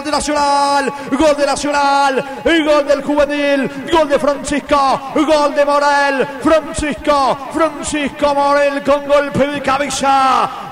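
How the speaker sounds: slow, shouted goal recap; excited play-by-play. Real, not acted. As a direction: shout the scorer's name.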